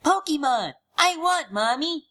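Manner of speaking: put-on high, loud excited little boy; child crying out. A narrator's reading. Boy begging his mother, high and loud. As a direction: squeal it like a greedy kid. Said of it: "crying out".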